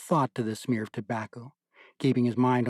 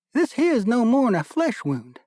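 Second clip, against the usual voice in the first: "this here's no more'n a flesh wound" much higher and louder, stress on "here's", falling; boasting corporal; 11 semitones higher, 5 dB louder than usual. A narrator's reading. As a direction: shrug off the lost arm with loud swagger. Corporal shrugging off his lost arm.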